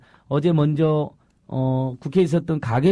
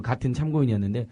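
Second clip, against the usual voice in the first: ordinary delivery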